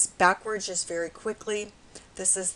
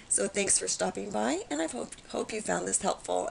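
hoarse, raspy everyday speech; 2 semitones higher than usual. Real, not acted. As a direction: talk through a raspy throat. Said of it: "I'm sorry for my raspy voice today".

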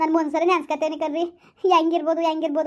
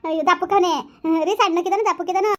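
eager questions; 2 semitones higher than usual. Acted. Wife eagerly asks husband how their son looks. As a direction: press him for every detail about her son.

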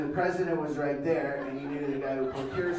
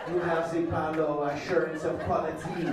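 raspy smooth introduction. Pretend. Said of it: "put a little raspiness in that voice".

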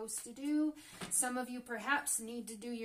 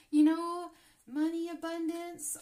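delighted; 6 semitones higher, 10 dB louder than usual. Real, not acted. Delighted at abundance cards.

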